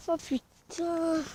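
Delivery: slow shaky cold groan; freezing, barely getting words out; shivering. Real, not acted. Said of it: "je caille".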